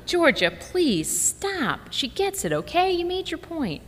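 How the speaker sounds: a harried mother losing patience; hammed-up exasperated yell; mock yelling mom. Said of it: "Why are you yelling at me".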